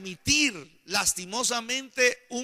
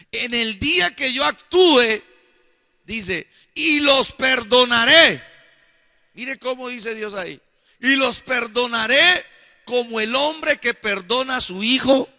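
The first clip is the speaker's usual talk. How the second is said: higher, louder preacher voicing God's word; proclamando escritura; 4 semitones higher, 6 dB louder than usual. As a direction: proclaim the verse out to the congregation. Preacher voices God reading scripture. (proclamando con fuerza la palabra de Dios)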